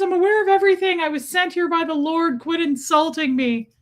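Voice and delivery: playful put-on voice for an animal; voicing the pet. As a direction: speak up as an offended little pet. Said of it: "She says".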